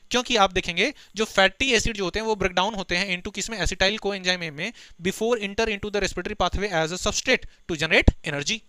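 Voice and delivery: slow dictation of the English phrase; slow textbook recitation; reading the textbook aloud. Acted. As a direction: spell it out word by word for students. Reads textbook line aloud.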